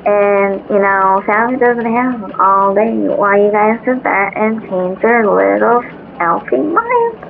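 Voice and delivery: irritated elf. Acted. Frustrated elf ranting.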